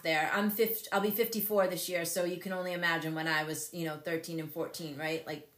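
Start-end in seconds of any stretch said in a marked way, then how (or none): none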